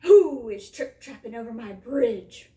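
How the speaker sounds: very loud troll bellow; troll's roar. A narrator's reading. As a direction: roar out the challenge to the trespasser. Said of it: "roared the terrible troll".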